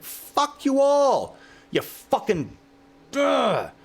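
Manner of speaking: screaming at the world. Retold or imitated. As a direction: yell it out to the whole street at dawn. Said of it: "I scream and scream".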